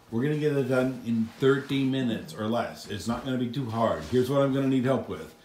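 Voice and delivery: a lightly done drill sergeant briefing; barking out orders like a mock army officer; army guy voice. Dad briefing the kids on cleaning as a mild army guy. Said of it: "I'm trying to talk like an army guy".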